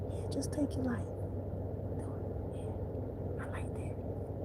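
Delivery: devil's whisper urging self-harm. Retold or imitated. Devil whispers to a person in despair, unvoiced. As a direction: hiss it softly into their head. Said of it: "You gonna whisper it".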